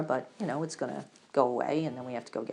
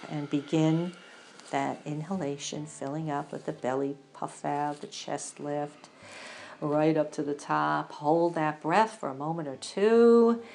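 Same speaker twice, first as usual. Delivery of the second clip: guided breathing meditation. Acted.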